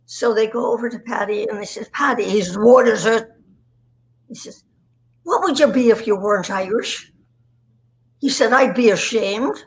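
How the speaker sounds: Irish brogue for a pub joke; lightly put-on Irish accent. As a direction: deliver the punchline with an Irish lilt. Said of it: "with an accent".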